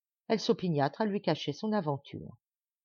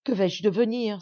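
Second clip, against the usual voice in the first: louder anguished cry; frightened cry; 3 semitones higher, 5 dB louder than usual. Acted. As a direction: cry out in fear. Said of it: "s'écria-t-elle". (cri d'effroi)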